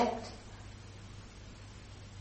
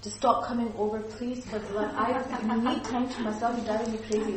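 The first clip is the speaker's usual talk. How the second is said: aggressive demand; 2 semitones higher than usual. Shown as a demonstration. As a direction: snap at the pushy neighbour to stay away. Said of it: "An aggressive person would say".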